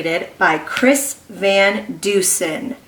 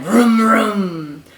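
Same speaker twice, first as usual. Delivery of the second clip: mock vroom. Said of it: "Mister Watson said".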